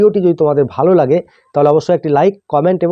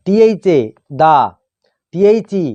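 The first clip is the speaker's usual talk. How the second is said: teacher's measured spelling recitation, pausing between items; pronunciation drill; slower than usual. Shown as a demonstration. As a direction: spell out the letters, then sound the blend. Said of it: "উচ্চারণ এইভাবে হয়". (বানান করে উচ্চারণ শেখানো)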